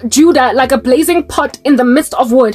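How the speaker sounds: measured Bible reading voice; solemn recital of Zechariah; scripture reading. Acted. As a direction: read it like a prophecy from the pulpit. Reads scripture prophecy aloud.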